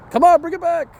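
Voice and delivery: high squeaky coaxing; squeaky praising a dog. Real, not acted. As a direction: call the dog back in a high voice.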